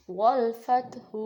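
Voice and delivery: والفتح read slowly with a stop on ح; stopping recitation. Shown as a demonstration. Teacher showing how to pause on والفتح. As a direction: stop firmly on the end of والفتح. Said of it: "اگر ہم رک رہے ہیں تو".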